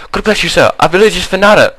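high, fast frightened peasant voice; high pleading villager. Acted. Villager thanks hero.

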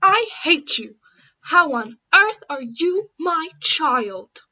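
angry shout. Acted. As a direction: scream it in a family fight. Parent and child fight.

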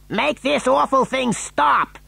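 high, slow, emphatic demand; ordering. A narrator's reading. Father in the careering lift, ordering Wonka. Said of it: "ordered Mister T V".

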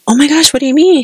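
high-pitched retold gasp of disbelief; acted shock at bad news; shocked reaction. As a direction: react aghast, pitch jumping up.

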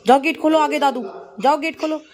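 high, loud hurry-up to the dog; excited urging. Real, not acted. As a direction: rush the pet to the gate. Urging dog to open gate. (कुत्ते को जोश से भगाती आवाज़)

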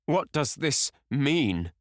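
loud, high, slow-stretched demand; shrill cry. Acted. Painter confronts the young man over the portrait, shrill cry. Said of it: "cried Hallward at last".

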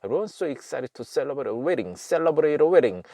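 words linked quickly, T and D flapped to R; fast run-through. Shown as a demonstration. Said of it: "굉장히 빨리 합니다".

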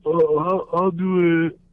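squeaky eager I'll do it; eager volunteer. Retold or imitated. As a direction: blurt it out like a keen kid. So here comes Vic.

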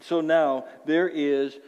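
slow, weighty reading of the verse; scripture reading. Shown as a demonstration. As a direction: read the verse slowly, leaning on "no". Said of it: "Paul writes this".

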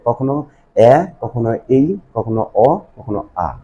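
slow, rising এ, এই, অ and আ; four vowel sounds. Shown as a demonstration. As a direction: say each vowel clearly, one by one. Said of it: "এই চারটা sound সৃষ্টি করে". (এ, এই, অ, আ আলাদা করে টেনে বলো)

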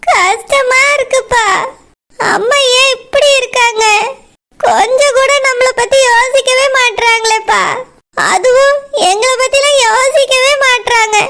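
tearful. Acted. Daughter complains about mother, weeping.

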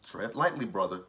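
cautious warning breaking into laughs; laughing warning. Retold or imitated. Vlogger warning Tommy at the strip club, laughing. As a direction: warn him gently through giggles. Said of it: "I was like".

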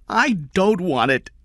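high, loud woman's protest; screamed refusal. A narrator's reading. Kathy rejects the money, screaming. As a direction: refuse forcefully, pitch well up. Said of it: "Kathy screamed".

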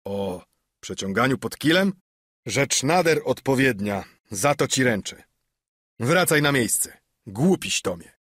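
mild sneering innkeeper; scornful Silver. Acted. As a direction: send the fool back to his seat. Silver dismisses Morgan.

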